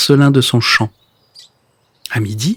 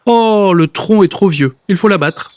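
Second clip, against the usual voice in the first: grumbling; 5 semitones higher than usual. Acted. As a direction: grumble it out, annoyed. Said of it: "arrive en râlant".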